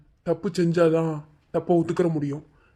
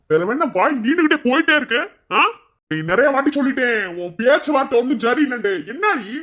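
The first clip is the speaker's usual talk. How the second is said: angry scolding; 3 semitones higher than usual. Acted. Husband scolds wife for back-talk.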